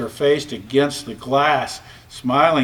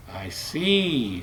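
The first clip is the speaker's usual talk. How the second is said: soft, subdued little reply; quiet, low and subdued; 4 semitones lower, 6 dB quieter than usual. A narrator's reading. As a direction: say it softly, a bit hurt. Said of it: "said Piggity".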